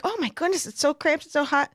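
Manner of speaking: put-on a touch of a flustered older lady; chatty older lady. Older lady grumbling about cramped, hot quarters, lightly imitated fussing. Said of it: "She's like".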